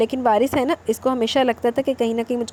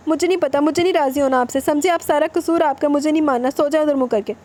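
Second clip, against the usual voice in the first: higher, tearful and petulant wife; stubborn, hurt refusal in a raised voice; angry sulk; 3 semitones higher than usual. Acted. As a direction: refuse him like a sulking wife. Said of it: "غصے سے کہتی".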